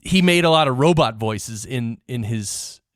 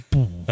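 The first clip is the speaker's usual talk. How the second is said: imitated low rumble; 7 semitones lower than usual. Host describes movie bass on old speaker, imitated low boom. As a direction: mimic a subwoofer's bass hit. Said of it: "that really low frequency".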